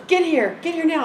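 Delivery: retold insistent demand; urgent summons. Client urgently summons her by phone.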